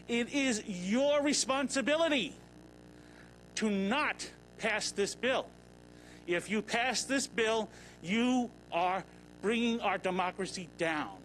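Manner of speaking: slow down and press every word as a warning; stern warning. Real, not acted.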